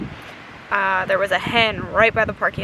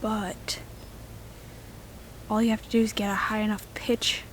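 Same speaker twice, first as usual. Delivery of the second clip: whispering; 2 semitones higher than usual. Real, not acted. Whispering in the woods before owl calling.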